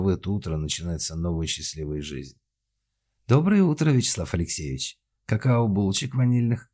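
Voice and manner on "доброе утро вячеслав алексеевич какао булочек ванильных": high, sweet, ingratiating greeting; sugary welcome. A narrator's reading. Mother-in-law greets Vyacheslav over breakfast, sugary-sweet. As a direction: smile and fawn over him. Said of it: "расплылась в милейшей улыбке".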